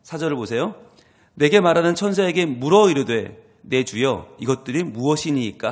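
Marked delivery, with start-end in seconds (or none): 1.3-5.7 성경 봉독하듯 또박또박; scripture reading. Acted. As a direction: read the verse out with weight. Reads scripture aloud. (성경 낭독하듯)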